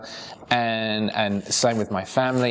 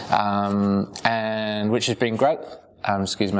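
choking on a drink. Real, not acted. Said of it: "I'm choking my beard here".

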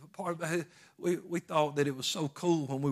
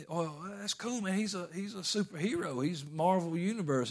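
put-on admiring kid; 4 semitones higher than usual. Preacher voicing his boyhood self praising the Hulk, mildly awed. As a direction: gush like an impressed boy.

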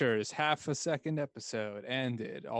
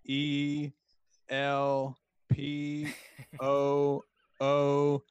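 spelling it out; much slower than usual. Shown as a demonstration. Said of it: "can you use it in a sentence?".

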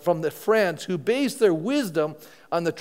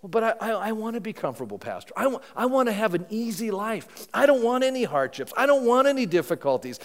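lightly mocked complainer, pitched a little higher; reluctant congregant; 4 semitones higher than usual. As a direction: lightly mimic someone pleading for an easy life.

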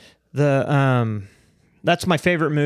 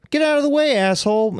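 retold yell; 11 semitones higher than usual. Retold yell at other driver.

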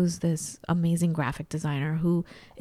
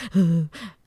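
mock crying gasp; 3 dB louder than usual. Mimics bursting into tears.

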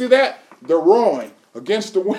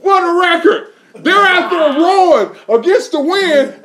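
louder, higher, laughing through the words; laughing delight; 9 semitones higher, 6 dB louder than usual. Real, not acted. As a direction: burst out laughing in awe at the story. Preacher delighted by the story.

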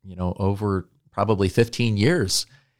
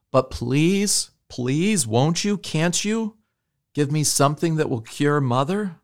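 much higher, pleading through tears; tearful blurted plea; 7 semitones higher than usual. A narrator's reading. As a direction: beg desperately with a lump in the throat. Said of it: "he blurted out".

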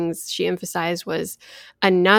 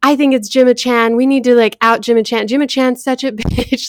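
higher and louder, hammed-up indignation; mock outraged tweeter; 4 semitones higher, 4 dB louder than usual. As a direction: play an angry Twitter user piling on, laughing at the end. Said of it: "tweets that were like".

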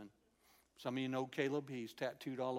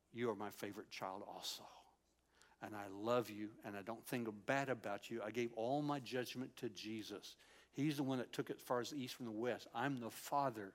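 tender; 3 semitones lower than usual. Retold or imitated. Voicing God speaking tenderly to him.

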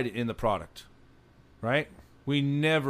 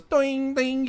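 high, bright imitated clang of the box; ringing box sound; 11 semitones higher than usual. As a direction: ring it out like metal hitting the ground. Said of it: "this thing goes".

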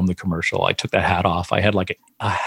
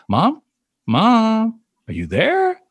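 calling out; 11 semitones higher, much slower than usual. Retold or imitated. Calling to silent mother on phone.

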